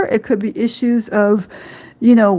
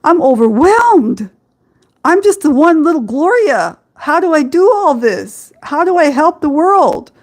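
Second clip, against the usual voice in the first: higher, retelling her own overwhelmed plea; imitating overwhelmed self; 5 semitones higher than usual. Woman retells crying over war news, mildly overwhelmed pleading. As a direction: replay the helpless cry, a touch teary but mild. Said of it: "I'm crying to myself and I'm going".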